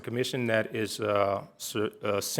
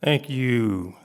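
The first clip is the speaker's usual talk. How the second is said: loud voice; 6 dB louder than usual. Real, not acted. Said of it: "I got a loud voice".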